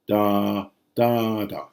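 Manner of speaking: one long beat then two short ones; dactyl rhythm. Shown as a demonstration. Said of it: "So proswoikon".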